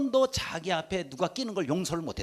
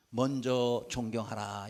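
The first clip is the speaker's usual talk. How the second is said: 먼저를 천천히 또박또박 강조; "먼저" 에 힘을 주고 느리게; stress on 먼저; 6 semitones lower, slower than usual. Shown as a demonstration. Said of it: "이렇게 말씀하고 있습니다". (먼저를 눌러 말하기)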